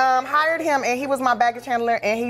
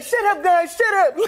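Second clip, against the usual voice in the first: high mock hush through laughter; imitating Roscoe hushing friends; laughing hush; 7 semitones higher than usual. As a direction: shoo them off, giggling.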